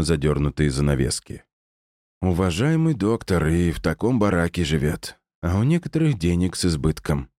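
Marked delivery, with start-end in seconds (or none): 2.2-7.3 grumbling. Acted. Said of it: "проворчала Люсинда".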